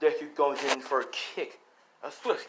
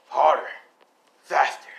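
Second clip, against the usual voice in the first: louder commands, pushing the student; urging shout; 7 dB louder than usual. Acted. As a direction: bark the orders to train harder. Master urges Deku in training.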